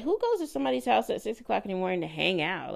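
retold bafflement in a rapid rush; quick, mildly incredulous questioning; confused. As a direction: rattle it off, puzzled. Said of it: "I was confused".

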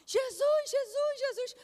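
high, loud terrified cry to Jesus; screaming in terror on the roller coaster; panicked scream. Retold or imitated. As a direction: yell it like you're trapped in the dark ride. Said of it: "Eu passei a maior vergonha".

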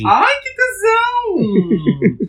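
high, drawn-out squeal of delight; excited squeal. Real, not acted. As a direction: stretch it out, thrilled. Excited to start his pick.

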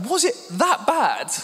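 high, slow, stretched-out question; mock alarm. Husband to laughing wife, high mock-alarmed squeak.

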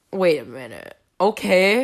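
low, sarcastic retort. Retold or imitated. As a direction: dryly quote your own sarcastic comeback. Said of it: "I say it very sarcastically".

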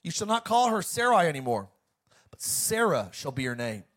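preacher proclaiming as God; God speaking. Acted. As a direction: read it as God's solemn promise, in emphatic phrases. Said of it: "Then God said to Abraham".

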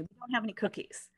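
curt refusal. Retold or imitated. Counter guy curtly refusing cookies, mildly imitated. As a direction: brush the customer off. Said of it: "that's how he says it to me".

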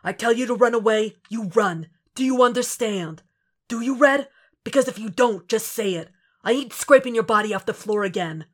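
a partner laying down orders, stern and insistent. Acted. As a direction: lay down the law, worried underneath. Frank lays down strict orders.

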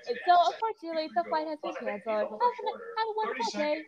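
airport announcement. Pretend. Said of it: "do the intercom".

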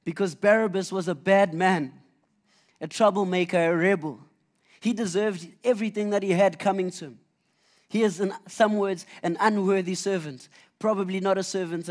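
preacher building to a loud point; rising preaching intensity. Real, not acted. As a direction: press hard on Barabbas's guilt.

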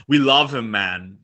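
a hint of Minnesota folksy; playful Minnesota accent impression. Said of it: "this is my Minnesota accent".

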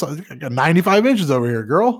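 high, hammed-up chat-room flirt; mock sleazy flirt.

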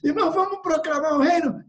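rally them with an eager question; rousing invitation. Acted. Preacher acting out inviting a brother, rousing call.

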